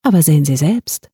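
falsely friendly, light touch; a mild pleasant offer with menace under it. A narrator's reading. The stranger hands René the tablet, mildly friendly. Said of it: "sagte freundlich".

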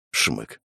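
a soft, calm sniff; a girl sniffling quietly; quiet sniffle. A narrator's reading. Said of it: "более тихий и спокойный". (тихий всхлип)

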